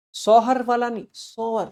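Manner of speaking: "सौर" said short, without the h of "सौहर"; clearly "सौर", not "सौहर"; correct pronunciation. Shown as a demonstration. Teacher correcting students' pronunciation of सौर. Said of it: "सौर बोलते हैं इसको".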